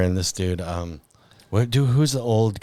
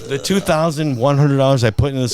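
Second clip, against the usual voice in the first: louder, climbing to a high yell; triumphant shout; 6 semitones higher, 4 dB louder than usual. Retold or imitated. Driver boasting about his car, loud and climbing high. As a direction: crow about your win.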